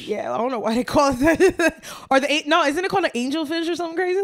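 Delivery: talking through laughter; laughing. Real, not acted. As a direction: giggle over the words. Laughing while describing sea creature.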